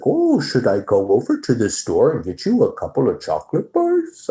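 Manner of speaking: a hint of the fawning boss; lightly voiced manager. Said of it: "He was like".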